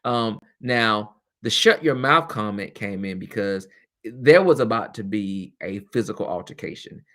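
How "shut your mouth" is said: retold snap. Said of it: "told a child to shut their mouth".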